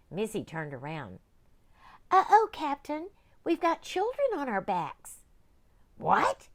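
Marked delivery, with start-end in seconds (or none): 2.1-5.2 high, loud alarmed uh-oh; high, loud panicky pirate. Acted. 6.0-6.5 sputtered what. Acted. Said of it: "sputtered the captain".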